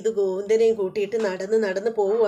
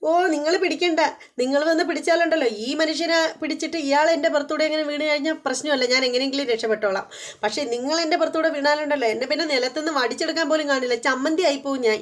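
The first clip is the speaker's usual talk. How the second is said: sarcastic wife; 4 semitones higher than usual. Retold or imitated. Geethu rebukes old servant.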